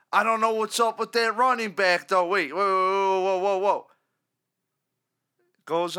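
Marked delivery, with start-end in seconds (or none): 2.3-3.9 a hint of a host cutting in, louder; hitting the brakes. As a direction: stop the caller short, mock alarmed. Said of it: "John Murphy just hits the brakes".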